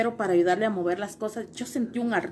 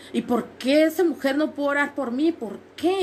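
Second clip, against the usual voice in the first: raised, insistent questions to God; higher-pitched retold plea; pleading questioning; 4 semitones higher than usual. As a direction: plead for an answer, pitch climbing. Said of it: "empecé yo a preguntarle a Dios".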